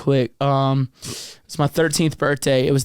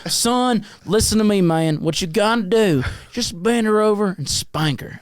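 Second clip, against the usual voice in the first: imitating dad; 3 semitones higher than usual. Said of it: "How he sounded".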